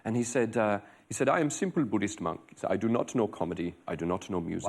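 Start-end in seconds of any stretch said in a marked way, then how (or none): 1.3-4.7 low, soft imitating of the Dalai Lama; Dalai Lama impression. Comedian imitating the Dalai Lama's speech at a concert. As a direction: mimic a gentle monk. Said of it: "Why are you talking like that?".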